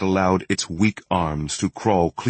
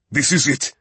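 higher-pitched note of triumph; victorious proclamation; 6 semitones higher than usual. A narrator's reading. Riegel seeing the hunt succeed, victorious proclamation. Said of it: "Riegel proclaimed victoriously".

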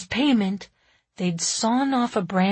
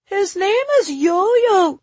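put-on high, loud child's correction; drawn-out little-kid reproof; coldly; 12 semitones higher, 8 dB louder, slower than usual. A narrator's reading. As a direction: correct them slowly and pointedly as a kid. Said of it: "said Timby coldly".

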